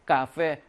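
카페 with tense k and f for ph; 카페 said the Vietnamese way; Vietnamese pronunciation. Shown as a demonstration. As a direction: demonstrate 카페 as Vietnamese "kka-fe". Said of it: "피에이치가 F 발음이라고 그랬지".

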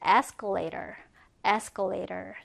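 escalator said low and clear; model pronunciation. Shown as a demonstration. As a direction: demonstrate escalator. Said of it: "에스컬레이터는 이렇게 씁니다". (escalator 발음 시범)

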